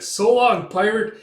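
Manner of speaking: high, loud send-off; taunting farewell shout. Retold or imitated. Character escaping the pirate, taunting farewell shout. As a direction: call it back to a beaten foe. Acted shout to enemy left behind.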